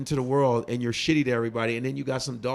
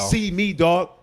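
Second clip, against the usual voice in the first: see me, dog pushed out louder and harder; louder dare; 4 semitones higher, 4 dB louder, slower than usual. Real, not acted. Calling out internet critics, a loud defiant dare. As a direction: lean in and call them out.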